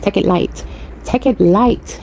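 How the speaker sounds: light Belizean accent imitation. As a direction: echo grandfather's Belizean accent. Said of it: "with his Belizean accent".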